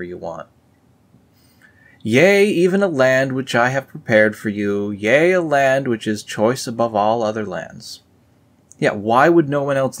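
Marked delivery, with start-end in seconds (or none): 2.0-8.0 higher, louder solemn reading; scripture reading. Acted. Reading the Book of Nephi aloud to viewers, solemn. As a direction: proclaim it like old scripture.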